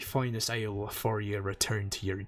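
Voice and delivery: gruff old sailor brogue, lightly put on; a dock-boss accent, lilting; pirate accent. Old sailor welcoming a newcomer, lightly accented. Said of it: "How terrible is my accent?".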